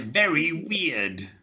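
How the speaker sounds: slow "very weird" with a clear V and W; slow V and W demo. Shown as a demonstration. Teacher drills Masiek slowly on V and W. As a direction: model "very weird" slowly, V against W. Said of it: "practicing things like".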